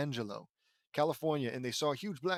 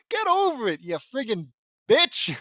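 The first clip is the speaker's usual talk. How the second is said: angry shout; 7 semitones higher, 9 dB louder than usual. Real, not acted. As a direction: scream it at the character in mock rage. Ranting at character.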